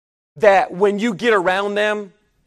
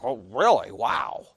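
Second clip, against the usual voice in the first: mock sarcasm; 12 semitones lower, 6 dB quieter than usual. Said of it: "I'm like".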